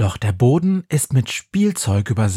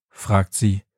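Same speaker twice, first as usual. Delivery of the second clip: ordinary delivery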